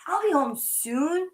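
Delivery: calm the crying bear; reassuring. Acted. Nora comforts the sick bear, slow reassuring. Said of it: "said Nora".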